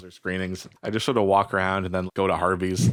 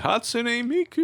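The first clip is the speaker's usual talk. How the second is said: slow, high-pitched mock announcer; old man voice; slower than usual. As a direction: drawl it like an old TV host. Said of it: "in his old man voice".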